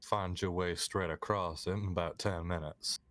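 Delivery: game master setting the scene in mild Southern; Southern accent. Acted. Game master describing Clifton to players, Southern accent. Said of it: "multiple of us talking in Southern accent".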